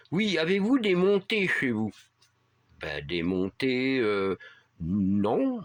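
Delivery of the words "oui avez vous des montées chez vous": put-on high, lightly Spanish-accented question; mild imitation of a Spanish-accented driver. Driver asking about hills, in a light Spanish accent. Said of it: "avec un fort accent espagnol".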